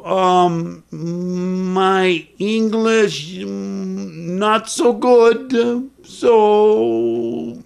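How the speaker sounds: hammed-up Italian fumbling for English words; fake Italian accent. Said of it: "now I get to pretend I'm Italian".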